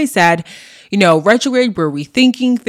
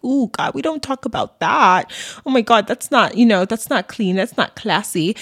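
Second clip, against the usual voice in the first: mock-shocked prissy voice, higher pitched; lightly hammed-up shocked prude; scandalized prude; 4 semitones higher than usual. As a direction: play a clutching-pearls prude. Mocking prudish society's shocked reaction.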